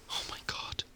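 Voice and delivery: breathless fed-up whisper; exasperated whisper. Acted. To herself after another telling-off, exasperated whisper. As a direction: sigh the words out.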